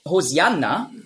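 Greek-style "Hosianna", s in place of sh; "Hosianna" with an s sound; Greek pronunciation. Shown as a demonstration. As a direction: say "Hosianna" with a plain s, no sh. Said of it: "einfach die griechische Aussprache".

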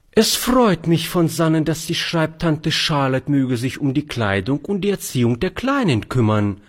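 put-on high, fussy old spinster voice; old maid Charlotte. Charlotte accepts the task of raising the girl, high fussy voice. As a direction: play a proper elderly lady.

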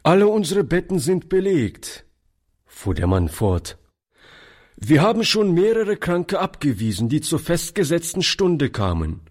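a hint of a dismissive gatekeeper; brisk porter voice. A narrator's reading. Porter refuses them.

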